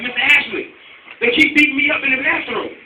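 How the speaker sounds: a hint of a scared little boy; kid pleading. Boy begging the teacher for help, lightly voiced kid.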